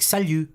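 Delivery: 'salut' as sa-lyu, tight French vowel, silent T; flat-tongued French U. Shown as a demonstration. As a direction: flatten the tongue on the end of 'salut'. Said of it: "your tongue almost goes flatter".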